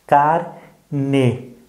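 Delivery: "Carne" dito devagar, car... ne; fala devagar. Shown as a demonstration. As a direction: separe "Carne" em duas sílabas, com ê claro no final. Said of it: "fala devagar". ("Carne" silabado, com pausa no meio)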